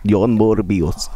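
lightly voiced mock villain; mocking the ASMR guy. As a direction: drag out the name in a mock spooky voice. Mocking the whispered clip.

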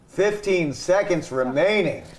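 measured time call; announcer-style countdown warning. Pretend. Contest host calls out time.

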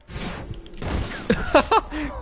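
high airless wheezing laugh; breathless laugh. Real, not acted. Laughing at chat message.

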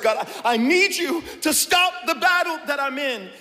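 fast, urgent protest to God; frantic pleading. Acted. Believer arguing with God, fast and urgent. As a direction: rush the complaint breathlessly.

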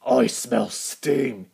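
slow, breathy giant's whisper; a giant whispering hungrily, drawn out. Acted. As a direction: sniff the air and whisper it slowly. Giant sniffs out the engines.

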